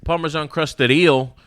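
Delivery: high, slow hammed-up sales pitch; over-the-top menu pitch; slow mock pitchman. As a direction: savor each dish like a showy chef.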